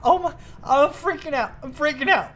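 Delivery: high, drawn-out incredulous outcry; freaking out. Real, not acted. Gamer seeing a full stack barely register, freaking out. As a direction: reel at the numbers in a high, stretched voice. Freaking out at tiny fill percentage.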